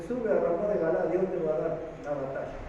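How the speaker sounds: mocking tone. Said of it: "se lo está diciendo en un tono de burla".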